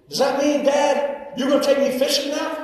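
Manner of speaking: a hint of an excited kid asking dad; lightly voiced eager son. Son eagerly questions his dad.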